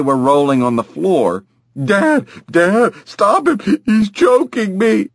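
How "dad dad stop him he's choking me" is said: put-on high, pleading kid voice; panicked child. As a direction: cry for dad's help. Child being choked by brother.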